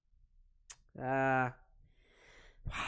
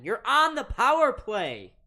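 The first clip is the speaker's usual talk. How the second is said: loud, high disbelieving outburst; exasperated; 8 semitones higher, 9 dB louder than usual. Real, not acted. Fan caster watching a bungled power play, exasperated. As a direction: yell at the team in disbelief.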